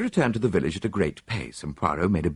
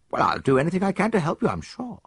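put-on higher, quick eager young man's voice; young soldier; 13 semitones higher than usual. Soldier answers the detective, higher and quick. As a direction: play the keen young officer, pitched up.

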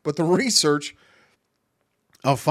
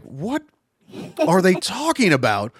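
baffled cop; 6 semitones higher, 4 dB louder than usual. Acted. Acting out baffled listening cops.

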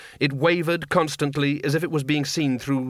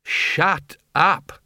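raised, emphatic shut-up; exasperated chorus retort; 5 semitones higher, 3 dB louder than usual. A narrator's reading. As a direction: snap it out as two separate blows. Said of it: "said the wizards in unison".

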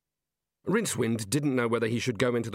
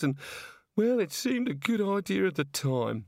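put-on much higher, tearful-sounding young woman; upset Neilette; 7 semitones higher than usual. Neilette, crying on the luggage, complains to Rincewind, high and upset. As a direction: pour out her woes, near tears.

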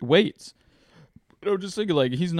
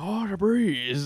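higher, slow Asian accent impression; 6 semitones higher, slower than usual. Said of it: "he's strong Asian accent".

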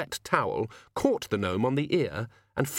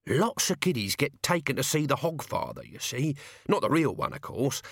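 flattering servant; 2 semitones higher than usual. Acted. Servant humouring his master and explaining shops, flattering. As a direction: praise hastily, then ramble on.

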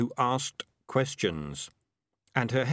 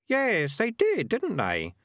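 put-on higher, lighter young boy voice; boy's voice; 11 semitones higher, 3 dB louder, slower than usual. A narrator's reading. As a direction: voice the kid a touch higher. Kid character voice.

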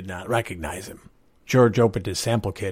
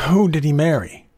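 urgent, hoarse, louder question; hoarse demand; 7 semitones higher, 6 dB louder than usual. A narrator's reading. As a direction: rasp out the question in alarm. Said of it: "he demanded hoarsely".

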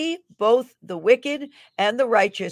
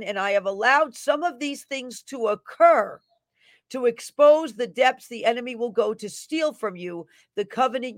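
raised, ringing prophecy read in the voice of God; fervent prophetic declaration; prophetic proclamation; 3 semitones higher than usual. Acted. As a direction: proclaim it like a prophet over the crowd. Reads a prophetic word.

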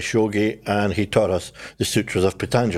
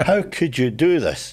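slow, raised-pitch reproach; mock dismay; 4 semitones higher than usual. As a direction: stretch it out in playful disbelief at a friend. Retold scornful reaction to friend's conversion.

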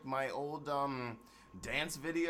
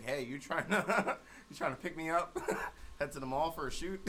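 laughing request; 3 semitones higher than usual. Retold or imitated. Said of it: "I would have to hit Aaron up".

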